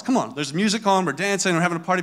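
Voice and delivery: soft, friendly coaxing; very nice. Retold or imitated. Parent making pickup a party for the kids, very nice. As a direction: gently coax small children along, playing patient parent. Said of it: "I start off very nice".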